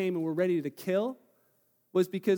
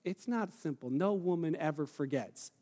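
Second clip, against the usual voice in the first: indignant aside; 5 semitones lower, 6 dB quieter than usual. Retold or imitated. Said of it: "you women are like".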